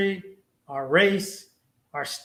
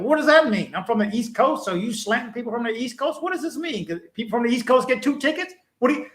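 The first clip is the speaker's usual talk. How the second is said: D C attitude; 4 semitones higher than usual. Retold or imitated. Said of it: "I was straight D C at that point".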